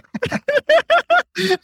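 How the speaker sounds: high, loud burst of laughter; real high-pitched laughing fit. Real, not acted. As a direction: laugh out at your own punchline. Laughs at own punchline.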